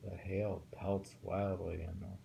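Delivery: slow, careful haiku reading; poem reading. Acted. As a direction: take the lines slowly, warn on "Take care". Reads a haiku aloud.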